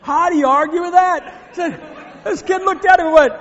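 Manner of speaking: high, shouted disbelief over the laughter; loud exclamation. Real, not acted. Preacher marvelling at the story to his congregation, loud exclamation.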